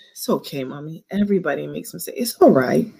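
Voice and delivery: a small daughter soothing her mother; daughter comforting. Retold or imitated. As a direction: comfort mommy like a little girl. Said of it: "every time you do something".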